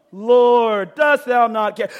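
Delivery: loud, indignant Lord, dost thou not care; ticked-off shout. Shown as a demonstration. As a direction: demand it of him in anger. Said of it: "The girl's ticked off".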